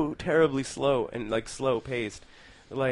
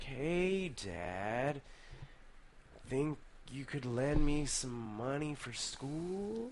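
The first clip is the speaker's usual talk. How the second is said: very slow, drawn-out, soft speech; 11 dB quieter than usual. Mocking how people talk in Animal House: slow Animal House-style speech. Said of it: "people even speak slow".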